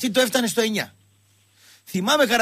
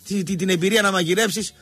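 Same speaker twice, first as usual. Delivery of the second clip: rhythmic, list-like sales patter; chatty live sponsor plug; radio ad read. Acted. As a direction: pitch it casually to hungry listeners. Reads a sponsor advert over music.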